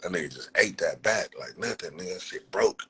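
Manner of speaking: normal talking voice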